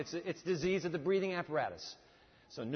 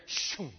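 whooshing sound. Retold or imitated. Imitates Gabriel's instant flight down.

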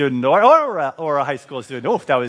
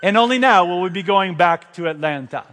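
pilot announcement; 3 semitones higher than usual. Retold or imitated. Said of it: "they said".

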